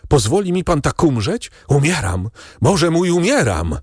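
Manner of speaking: high-pitched dying plea, acted by a narrator; desperate cry. A narrator's reading. Dying servant pleading with his master, crying out in despair. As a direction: cry out in anguish without real shouting. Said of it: "krzyczał Barrois".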